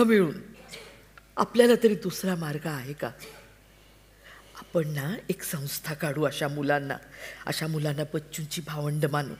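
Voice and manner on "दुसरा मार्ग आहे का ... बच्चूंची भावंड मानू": whispered, soft confiding plan; hushed. Acted. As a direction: lean in and whisper the idea to your husband. Wife confides plan to husband. (कुजबुजत, हळुवार)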